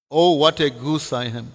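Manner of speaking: the punchline, words joined up; mantra run together. Shown as a demonstration. Preacher revealing what the bogus mantra sounds like, run together. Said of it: "if you say it fast".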